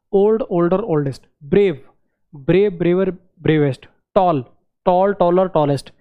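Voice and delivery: ओल्ड, ब्रेव, टॉल, each said in one breath; one-breath demo. Shown as a demonstration. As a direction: set the forms out one by one, each in a single beat. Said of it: "ऐसे शब्द जो एक सांस में बोले जा सकते हैं".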